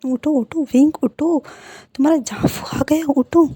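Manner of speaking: calling out. Acted. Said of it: "चिल्लाते होते हैं".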